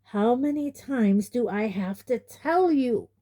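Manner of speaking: high, heated and rising; rising temper. A narrator's reading. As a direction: let the temper climb. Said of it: "temper and voice both rising".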